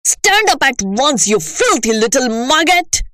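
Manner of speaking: a hint of a furious headmistress; angry order.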